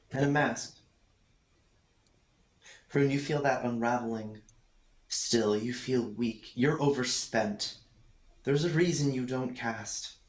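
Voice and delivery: low, measured scene-setting; game master narration. A narrator's reading. Game master describing treasure to players, low measured narration. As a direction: narrate the hoard piece by piece, in a low voice.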